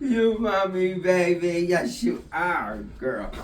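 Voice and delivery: doting pet voice. Real, not acted. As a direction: coo at the dog like an infant. Baby talk to her puppy.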